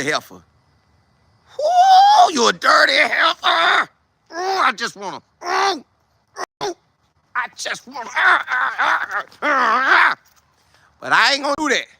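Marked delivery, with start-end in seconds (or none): 1.6-3.9 hammed-up high, loud squeal of rage; acted outburst, very high and strained; boiling-over fury. Acting out holding back anger at her. 4.3-10.2 high, strained mock growls of frustration; hammed-up exasperated outburst, breaking into wordless cries; barely contained fury. Acting out urge to lash out.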